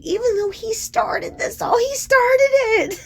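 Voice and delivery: outraged disbelief. Real, not acted. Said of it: "incredulous at Samson".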